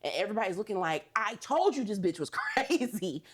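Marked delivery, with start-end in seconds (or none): 1.2-3.2 drawn-out, exasperated mock reaction; imitating an exasperated onlooker; mock told-you-so. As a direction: stretch it out, laughing at their verdict. Everybody's reaction acted in retelling.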